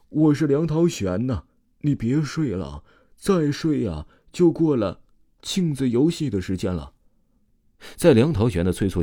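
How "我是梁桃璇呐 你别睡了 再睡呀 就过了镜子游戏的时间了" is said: lightly acted wake-up call; calling from outside. A narrator's reading. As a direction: call out to rouse a sleeper. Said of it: "外面有人喊他的名字".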